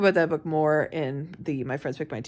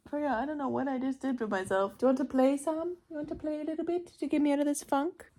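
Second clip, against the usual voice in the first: higher-pitched talk to a pet; coaxing pet talk; 7 semitones higher, 4 dB quieter than usual. Real, not acted. Owner asking pet to cheer her up, coaxing. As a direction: sweetly coax a pet into playing.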